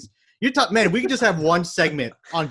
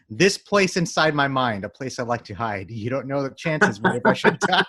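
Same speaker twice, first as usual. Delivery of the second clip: dramatic reading. Shown as a demonstration. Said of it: "I'm just gonna read it".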